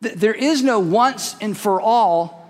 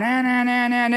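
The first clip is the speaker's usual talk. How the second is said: mock bickering; 3 semitones higher than usual. Mimics bickering in the car.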